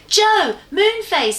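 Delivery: loud, high eager call; excited call. Acted. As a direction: burst out with a new idea. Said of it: "her face red with excitement".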